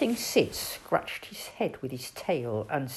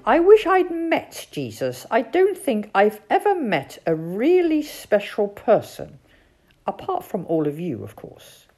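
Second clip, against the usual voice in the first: high, loud, eager toad voice; 4 semitones higher, 7 dB louder than usual. Acted. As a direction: gush wistfully as an excitable toad.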